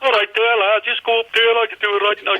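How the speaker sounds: high-pitched, exaggerated Scouse; Liverpool accent. Liverpool local answering a lost language learner, thick Scouse. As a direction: send up a broad Scouse local. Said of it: "coming to Liverpool".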